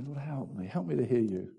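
softly spoken, understated plea; inward prayer. Shown as a demonstration. Preacher showing listeners a heart prayer, quietly pleading. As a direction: pray it quietly, as if in your heart. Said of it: "just in your heart say".

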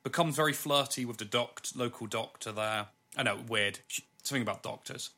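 talking around a mouthful of olives; words through a full mouth, chewing. Real, not acted. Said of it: "I'm struggling to talk 'cause I'm eating".

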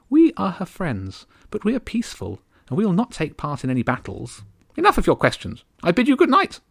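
tiny haughty countess, aggrieved; high regal bird voice. Acted. Countess complaining about the gulls, high and bitter. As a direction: complain like an offended little queen.

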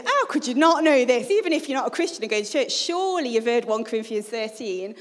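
mildly exasperated disbelief; indignant, opening loud then easing off; a bit annoyed. Retold or imitated. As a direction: retell it as an incredulous grumble, starting loud. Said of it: "I was getting a bit annoyed".

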